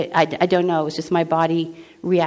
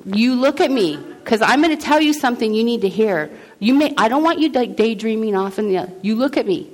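higher, emphatic parental insistence; serious parent; 3 semitones higher than usual. Acted. Parent telling kids something they need to hear, serious and insistent. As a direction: insist like a parent demanding attention. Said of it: "tell your kids something serious".

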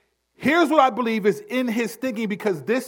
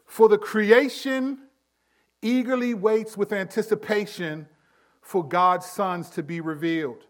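scripture reading. Shown as a demonstration. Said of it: "and I quote".

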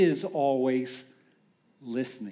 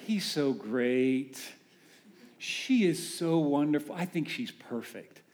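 mushy in love; 4 semitones lower, 4 dB quieter than usual. Retold or imitated. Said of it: "And you kinda talk like that".

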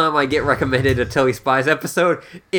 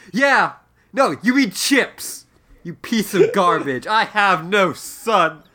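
disgusted British dad; 4 semitones higher, slower than usual. Acted. Father disowns son.

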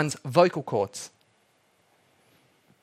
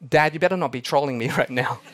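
laughing accusation; faster than usual. Retold or imitated. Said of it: "the daughter says".

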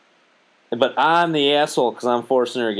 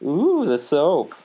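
playful dishwashing act; 3 semitones higher, much slower than usual. Pretend. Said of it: "say it exactly like I just did".

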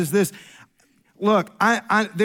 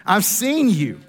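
laughing; slower than usual. Shown as a demonstration.

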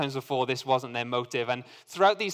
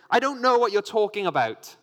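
higher and louder, desperate to be believed; heated denial; 8 semitones higher, 6 dB louder than usual. A narrator's reading. Peter denying Jesus a third time, heated. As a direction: push the accuser away.

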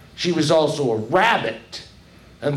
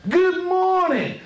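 Brer Rabbit greeting; 3 dB louder, slower than usual. Acted. Brer Rabbit greets tar babies.

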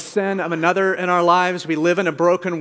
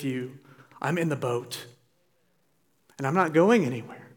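Jesus pleading. Retold or imitated. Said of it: "what he is saying is".

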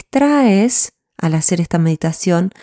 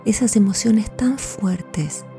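whispering; 5 dB quieter, slower than usual. Acted. Intimate meditation instruction.

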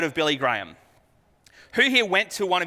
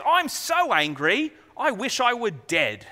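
Jonah's tantrum; 5 semitones higher than usual. Retold or imitated. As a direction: drag out the sulk like a child. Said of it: "the tantrum that Jonah has".

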